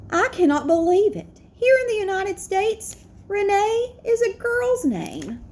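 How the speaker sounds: clear, gently expressive read-aloud; picture book storytime; reading to children. A narrator's reading. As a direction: read it warmly to a class of kids. Teacher reads picture book aloud.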